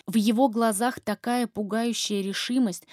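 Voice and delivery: ordinary delivery, nothing marked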